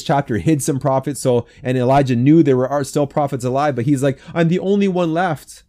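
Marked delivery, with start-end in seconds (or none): 4.3-5.6 higher-pitched mock lament; exaggerated complaint. Prophet complaining to God, with exaggerated self-pity. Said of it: "it's just that exaggeration".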